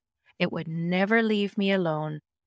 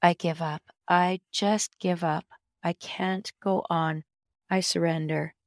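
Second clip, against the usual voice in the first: exhausted; slower than usual. Retold or imitated. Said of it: "Oh, but I'm so tired".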